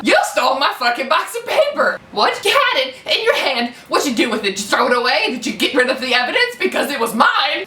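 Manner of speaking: a lightly voiced furious tirade; retold freak-out. Accusing the guy who took her photo paper, in a mild mock fury. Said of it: "I just lost it".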